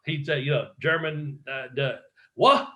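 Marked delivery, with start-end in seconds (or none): 2.4-2.7 "What?" jumps high and loud like a startled Englishman; imitating Robbie's "What?". Imitating Robbie Brookside's puzzled "What?", high and loud. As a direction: pop the "What?" up high, mock-surprised. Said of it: "like that".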